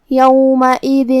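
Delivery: یومئذ drawn out slowly in recitation style; tajweed demo. Shown as a demonstration. Teacher showing students how یومئذ is recited, slow demo. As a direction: stretch یومئذ slowly the way the rule says. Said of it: "یہ حکم کو ادا کریں گے".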